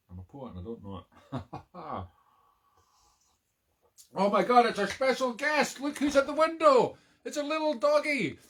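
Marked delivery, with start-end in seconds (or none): 4.1-8.4 greeting the visiting dog in a high silly voice. Real, not acted. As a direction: coo at the little doggy in a squeaky voice. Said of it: "this silly voice".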